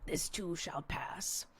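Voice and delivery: slow, hushed whisper; whispered mantra. Acted. Mother reassuring herself about the toddler phase, whispered. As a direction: whisper it slowly like a calming mantra. Self-soothing mantra after tantrum story.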